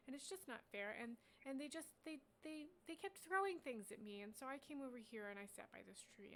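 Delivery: a hint of an excitable young dragon, chattering on; young dragon rambling.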